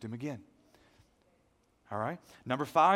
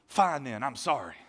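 curt, louder, reluctant sorry; grudging apology; 4 dB louder than usual. Retold or imitated. A wronged friend giving a grudging apology. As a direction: spit out a sorry you don't mean. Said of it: "their apology was like this".

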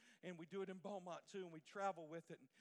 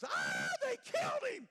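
high, loud panicked scream in imitation; 15 dB louder, slower than usual. Randy seeing the saw hit by silly string, imitated scream. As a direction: scream it out like a horrified child witness. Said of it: "and he screams".

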